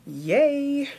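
a high, loud little cheer; excited yay. Retold or imitated. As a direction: squeal it like a kid who got a treat. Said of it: "So I was excited about that".

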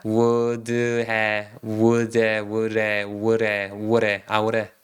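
"would have" moving from "wood-heh" to "woo-reh"; D turning to R. Shown as a demonstration. Teacher blending the words for students, gradually linked. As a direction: merge "would have" step by step, low and even, until D becomes a tap. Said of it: "D가 리을 발음이 나니까".

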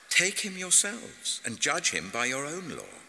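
high-pitched, impatient command; dismissive Pilate. A narrator's reading. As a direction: throw the case back at them, pitched high. Pilate rebuffs the accusers.

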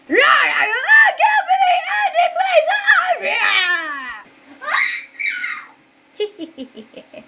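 evil doll shrieking for Andy; growling killer doll. Pretend. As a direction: snarl and demand the boy. Chucky demands Andy, growling.

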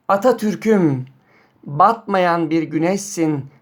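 slow, measured poem reading; poem recitation. Acted. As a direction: recite each line slowly and deliberately. Reads a poem aloud.

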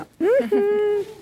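short high giggle; quick demo laugh; demonstrated giggle. Shown as a demonstration. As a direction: let out a light, high-pitched laugh.

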